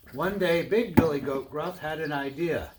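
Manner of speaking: lively, projected read-aloud voice; animated storyteller; storybook narration. A narrator's reading. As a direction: read it like a picture book to children. Reads a tale to children.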